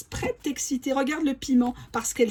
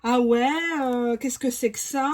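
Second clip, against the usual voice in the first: imitating jealous partner. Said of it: "cette personne va même te dire".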